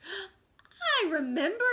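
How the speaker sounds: Slightly quick to show he knows; eager recall. Acted. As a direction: jump in eagerly. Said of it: "said Slightly instantly".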